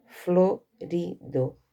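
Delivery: slow, split into syllables: florido. Shown as a demonstration. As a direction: say florido slowly, one syllable at a time. Teacher breaks word into syllables.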